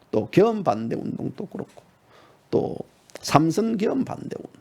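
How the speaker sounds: ordinary delivery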